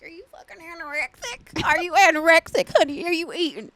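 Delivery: country grandma voice. Retold or imitated. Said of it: "She'd be like".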